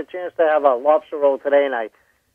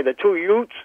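movie quote; 4 semitones higher than usual. Retold or imitated. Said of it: "My Cousin Vinny".

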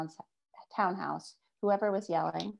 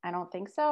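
"so" lifting up at the end; defensive, question-like rise on "so"; rising intonation. A narrator's reading. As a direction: upspeak on "I don't think so". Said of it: "my rising intonation".

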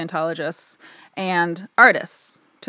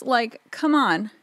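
slow, higher gushing; 5 semitones higher, slower than usual. Real, not acted. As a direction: let the delight overflow. Gushing over cute dinosaurs.

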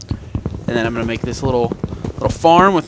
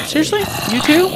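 exasperated disbelief; 14 semitones higher, faster than usual. Real, not acted. Annoyed at game interruption.

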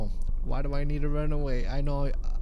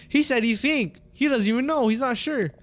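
raised, mocking disbelief; incredulous; 9 semitones higher, 8 dB louder than usual. Real, not acted. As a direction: scoff at how unsure he is. Mocking the NPC's answer.

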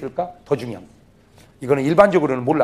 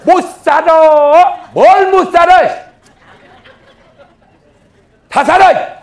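shout; 13 semitones higher, 12 dB louder, much slower than usual. Acted. Preacher shouting role-play.

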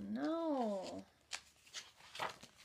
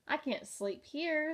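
tiny bug voice; 5 semitones higher, 4 dB louder than usual. A narrator's reading. Ladybug character voice.

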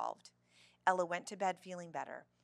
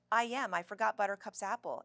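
loud, flustered excuse; mildly flustered, starting high and loud; stammering; 4 semitones higher, 8 dB louder than usual. A narrator's reading. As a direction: blurt an excuse, caught off guard. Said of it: "Ella stammered".

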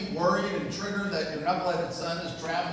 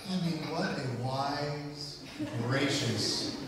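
mock-admiring wife; 3 semitones lower than usual. Imagined wife praising her husband, mock-admiring.

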